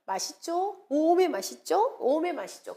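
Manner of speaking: exclaimed catchphrase in Jeolla dialect. Shown as a demonstration. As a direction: put on a Jeolla dialect lilt. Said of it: "전라도 사투리로 쓰면".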